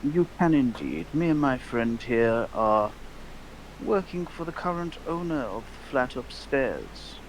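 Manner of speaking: lightly voiced, measured formal gentleman; courteous in-character address; formal gentleman customer. Player speaks in character to shopkeeper.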